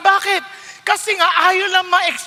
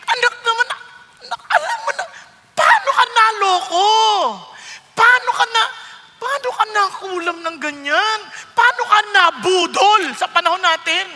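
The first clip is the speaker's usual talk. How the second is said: pained father; 4 semitones higher than usual. Retold or imitated. Father asking his scammed child what happened, pleading. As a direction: beg like a worried dad to his child. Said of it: "alam niyo yung pakiramdam ng tatay".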